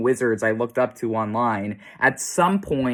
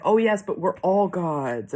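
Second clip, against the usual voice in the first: mocking trend; 6 semitones higher, slower than usual. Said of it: "in spirituality where it's like".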